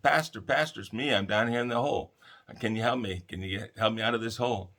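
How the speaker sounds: stuck man calls up to his pastor, pleading loudly; calling to the pastor. Retold or imitated. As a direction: hail the passing pastor, begging for help.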